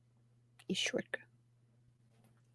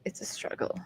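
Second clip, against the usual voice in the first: whispering; 14 dB quieter than usual. Real, not acted. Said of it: "whispered aside".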